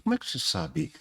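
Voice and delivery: interrupção em voz baixinha, mais aguda; baixinho. Retold or imitated. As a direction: imite alguém perguntando bem baixo. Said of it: "me interrompeu baixinho e falou". (pergunta baixinha, em tom um pouco agudo)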